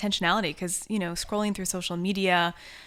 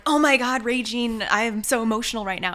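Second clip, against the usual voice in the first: mock panic; 4 semitones higher, 4 dB louder than usual. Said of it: "it wasn't like".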